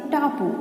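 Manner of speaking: टापू called out high; called-out answer. Shown as a demonstration. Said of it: "answer called out high".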